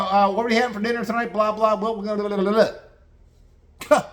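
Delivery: high, chirpy put-on voice; mock-breezy husband chatter; oblivious husband. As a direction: prattle on in a high mocking monotone.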